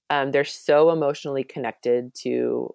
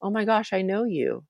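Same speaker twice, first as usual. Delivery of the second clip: imitated tender awe; 6 semitones higher than usual. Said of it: "being like".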